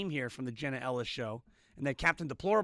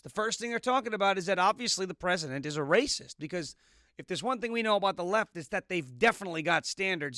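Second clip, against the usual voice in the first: sarcastic; 2 semitones higher than usual. Acted. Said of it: "the snark in my voice".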